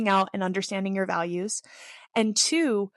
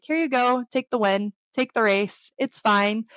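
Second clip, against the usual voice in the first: louder, breezy handing it over; breezy giving in; 3 semitones higher, 4 dB louder than usual. Retold or imitated. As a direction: wave the win away like it's nothing. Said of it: "I'm like".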